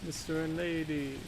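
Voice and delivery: a light imitation of a high robot voice; high, flat robot voice. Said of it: "robot voice from American Dad".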